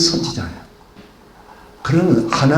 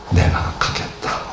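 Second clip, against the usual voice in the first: soft, slow "내가 가겠다" with little voice; quiet resolve; 5 dB quieter, slower than usual. Acted. Preacher voicing Deborah's short reply, soft and slow. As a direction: say it quietly and slowly, settled.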